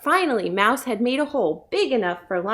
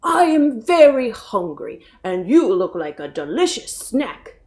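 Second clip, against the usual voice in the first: lightly voiced hungry lion; a hint of a big cat eyeing its snack. A narrator's reading. Lion to the mouse, a lightly voiced hungry threat. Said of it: "said Lion".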